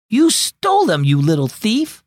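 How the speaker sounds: high angry cry at her sister; yelled. Acted. Mia yelling at her little sister, high and angry. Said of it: "yelled Mia".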